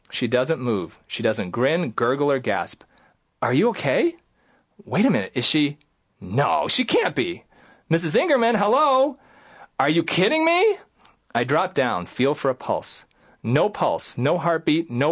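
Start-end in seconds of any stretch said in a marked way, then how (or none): 3.4-10.8 panicked. Retold or imitated. Patient collapsed, panic.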